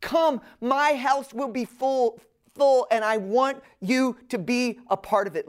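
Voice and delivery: Jesus calling people to his feast, warm and urgent; inviting call. Retold or imitated. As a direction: call them in gladly, drawing the words out. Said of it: "Jesus is out there saying".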